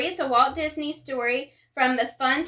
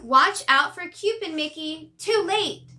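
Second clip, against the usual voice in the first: playful warning; 4 semitones higher than usual. Acted.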